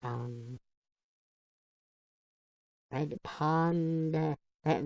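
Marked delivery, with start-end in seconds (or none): 2.9-4.2 "Red Pond" with a light Southern drawl, panda flattened to pond. Shown as a demonstration. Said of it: "that was my southern drawl".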